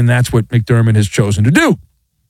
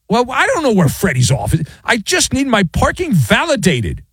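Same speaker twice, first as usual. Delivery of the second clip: higher whiny frustration; 7 semitones higher than usual. Acted. Acted parking runaround scene.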